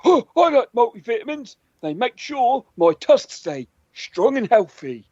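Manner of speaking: walrus character. Acted.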